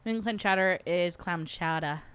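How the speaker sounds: put-on New England accent, dropped R in chowder. Streamer playing with regional food words, New England accent. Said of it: "New England is my favorite accent".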